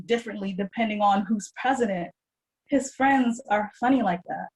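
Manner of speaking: measured, deliberate poem recital; poetry reading. Acted. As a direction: read it as spoken-word poetry, each phrase set apart. Reads own poem aloud.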